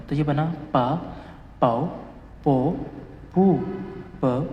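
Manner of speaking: पा, पाओ, पो each said apart with a pause; syllable drill. Shown as a demonstration. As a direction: sound out each syllable for students. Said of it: "संग बीयप की sound होती है प".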